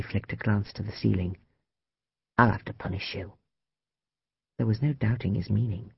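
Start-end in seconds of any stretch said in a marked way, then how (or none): 2.4-3.3 low, softened menace; low threat. A narrator's reading. Man warning his lover of punishment, quiet threat.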